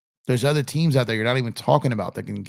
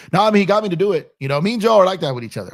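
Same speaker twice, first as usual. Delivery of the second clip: excited laugh-talk; 7 semitones higher, 5 dB louder, faster than usual. Real, not acted. Laughing about his friend Joe.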